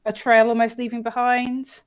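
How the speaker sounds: talking round a piece of ice; ice in mouth. Real, not acted. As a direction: speak with ice in your mouth. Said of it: "I had ice in my mouth".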